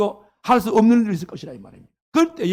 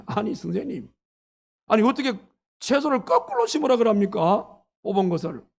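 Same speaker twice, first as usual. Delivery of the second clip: mildly acted grumble, pitched up in disbelief; grumbling protest; 3 semitones higher than usual. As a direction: imitate a disciple querying a silly order. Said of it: "하면서 투덜투덜 하면서". (투덜대며 따지는 제자 흉내)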